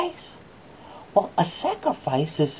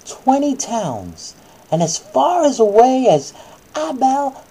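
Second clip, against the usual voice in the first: put-on reading to a child; 4 dB louder than usual. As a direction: clear storybook reading voice. Reads Bible story to child.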